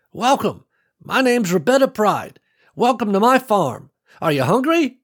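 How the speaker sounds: put-on high, cheerful old matriarch welcoming guests; old farm woman welcoming strangers, cheerful and high; kindly old woman. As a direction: beam at them like a proud grandma. Old woman greets visitors.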